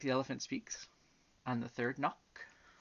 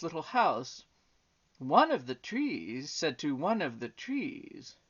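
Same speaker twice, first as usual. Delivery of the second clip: lilting, emphatic storybook narration; story reading to children; 6 semitones higher, 6 dB louder than usual. A narrator's reading. Reading the elephant and butterfly story aloud, storytelling. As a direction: read it out with sweeping pitch on key words.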